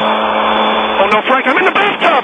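high panicked yelp; alarmed shout. Acted. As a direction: cry out in alarm. Dryer handed over in bathtub.

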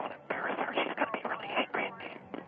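hushed, confidential whisper; anxious aside under the breath. Acted. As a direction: drop to a secretive whisper so she won't hear. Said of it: "Why are you whispering?".

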